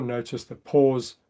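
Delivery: slowed, drawn-out cue, falling; calm slowed reminder. Shown as a demonstration. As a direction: settle the word pause.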